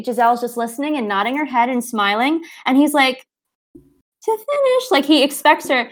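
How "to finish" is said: high, slow, sing-song question; mock expectant prince. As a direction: stretch it out like a hopeful prince. Edward expects duet finish.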